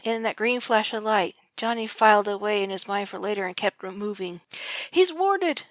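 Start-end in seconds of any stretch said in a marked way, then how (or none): 4.9-5.6 high loud guard shout. A narrator's reading. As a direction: call out the hit. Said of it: "guard shouted".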